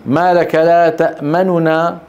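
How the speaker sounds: slow recitation, تأمننا with two nuns, the first vowel lightly sounded; rawm reading. Shown as a demonstration. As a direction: say تأمننا as ta'manunaa with a fleeting u. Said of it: "ضبط الروم".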